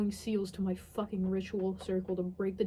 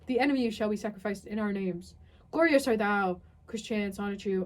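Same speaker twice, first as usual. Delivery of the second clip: mock grand incantation; 3 dB louder than usual.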